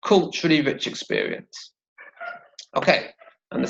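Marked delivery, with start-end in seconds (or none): 0.0-1.7 "Culturally rich experience" joined into one phrase; "Culturally rich experience" as one flow, falling at the end; linked phrase. Shown as a demonstration. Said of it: "And now together".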